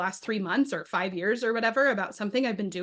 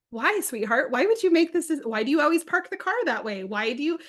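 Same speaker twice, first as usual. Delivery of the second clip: curious, not accusatory; 5 semitones higher than usual. Retold or imitated. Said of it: "I'm so curious and not accusatory".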